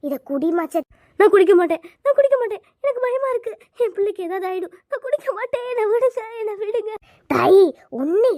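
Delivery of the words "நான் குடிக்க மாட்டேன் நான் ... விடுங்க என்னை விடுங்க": loud, high frightened cries of refusal; panicked refusal. Acted. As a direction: scream that you won't drink it. Refusing the herbal drink. (பயத்தில் உரக்க அலறி மறுத்தல்)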